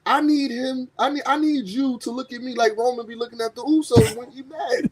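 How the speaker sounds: mock promo. Voices the wrestler's emotional promo.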